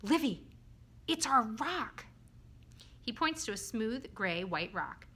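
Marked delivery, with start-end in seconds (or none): 0.0-2.1 higher, louder urgent discovery; suddenly serious. A narrator's reading. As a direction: announce an important find, voice lifted. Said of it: "Bob is suddenly serious".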